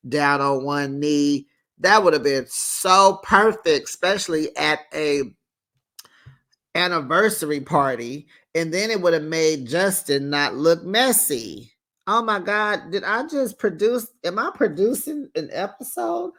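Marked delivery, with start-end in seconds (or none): 1.8-8.3 gushing. Real, not acted. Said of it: "gushing over imagined proposal". 12.1-16.3 mock excited realization. Real, not acted. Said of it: "mock self-realization".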